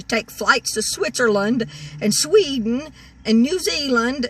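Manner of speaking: retold angry rant. Retelling what she would say to the woman, exasperated rant. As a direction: vent at her as if she were here.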